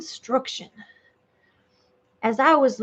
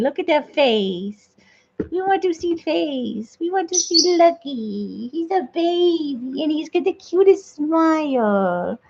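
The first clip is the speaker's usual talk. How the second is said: higher, cooing voice; cute talk; 4 semitones higher than usual. Real, not acted. Streamer gushing to chat about her cat in a higher coo. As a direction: gush over the cat to chat.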